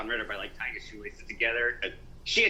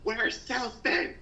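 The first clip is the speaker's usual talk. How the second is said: quoted line; 12 semitones higher, slower than usual. Retold or imitated.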